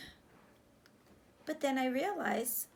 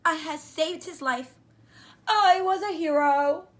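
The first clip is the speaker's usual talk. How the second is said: loud, higher heroic boast; proud triumph; 4 semitones higher, 12 dB louder than usual. Acted. Boy proudly declaring himself a hero. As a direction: puff up like a hero.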